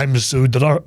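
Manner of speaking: hammed-up drunk. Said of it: "Connor's like".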